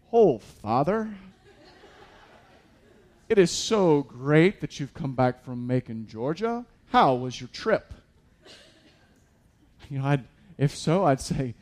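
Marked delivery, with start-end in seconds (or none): 0.1-7.9 mock formal greeting. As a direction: play it stuffy and overly polite, half laughing. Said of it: "She doesn't come up and just say".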